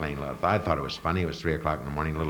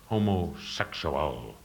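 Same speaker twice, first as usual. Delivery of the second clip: Southern drawl; 2 semitones lower, 4 dB quieter, much slower than usual. Shown as a demonstration. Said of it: "like in a southern expression".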